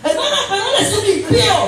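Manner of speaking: high, loud, fast objection; hammed-up indignant church sister; mock protest. Preacher mimicking a wife objecting about her husband, mock protest.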